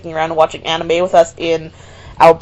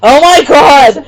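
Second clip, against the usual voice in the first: shocked exclamation; 6 semitones higher, 7 dB louder, slower than usual. Real, not acted. Name slip reaction.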